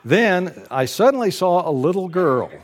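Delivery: says it through a short laugh, a little brighter; amused lead-in before reading; chuckling. Real, not acted. Preacher previewing the story line to his congregation, laughing lightly. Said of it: "The, the author says".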